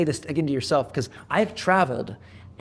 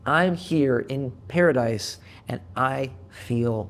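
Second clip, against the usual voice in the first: deflated; 3 semitones lower, slower than usual. Retold or imitated. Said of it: "And I'm like".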